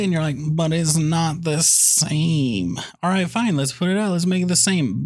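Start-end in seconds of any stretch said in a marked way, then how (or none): 0.4-2.8 whiny mock complaint. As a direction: drag it out like a sulking kid. Mocking whiny remake critics.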